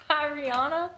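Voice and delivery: high, playful fake-French Piriana?; mock French. Joking that the brand name is French, mock French voice. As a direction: put on a silly French lilt. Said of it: "It's French".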